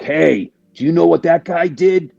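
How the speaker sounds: mock gossip. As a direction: play the busybody stirring things up. Mocking peanut gallery gossip.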